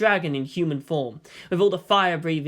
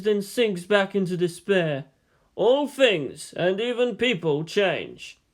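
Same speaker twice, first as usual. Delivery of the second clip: higher, slow musing teacher; wise teacher voice; 5 semitones higher, slower than usual. Acted. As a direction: muse slowly like an old sage. Yang musing on history.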